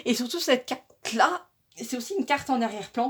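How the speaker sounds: talking through hiccups; hiccuping mid-sentence. Real, not acted. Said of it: "j'ai le hoquet".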